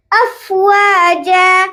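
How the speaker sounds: افواجا with af flowing into fa; joined af-fa. Shown as a demonstration. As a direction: join af and fa in افواجا. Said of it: "اف اور فا سے mix کرنا ہے". (افواجا میں اف کو فا سے ملائیں)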